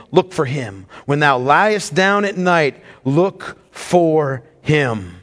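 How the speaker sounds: put-on slow, weighty reading of old sermon words. Pastor reading Spurgeon's words to the church, slowly and solemnly. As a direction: read Spurgeon slowly, letting each phrase land. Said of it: "I'll read it slowly".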